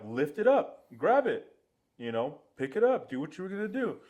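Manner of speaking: loud, high retold coaching; impatient urging. Parent telling child to lift the corn dog, impatient urging.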